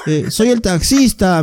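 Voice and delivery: put-on high, slow elderly cabbie voice; put-on old man's phone manner, drawn out; loud-talking old man. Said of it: "y hablaba fuerte".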